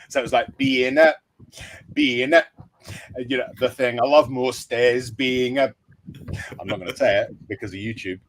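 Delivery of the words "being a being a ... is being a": lightly put-on Scottish accent on a chant. Fan retelling his duet with a Scottish mate, light Scottish accent. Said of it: "I can do a Scottish accent".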